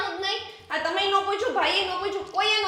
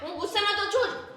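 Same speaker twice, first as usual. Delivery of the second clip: angry denial; 3 semitones higher than usual. Real, not acted. Bride rejecting the father's excuse for her, angrily. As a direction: cut him off hotly. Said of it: "ઈ અત્યારે છે ને ગુસ્સામાં છે".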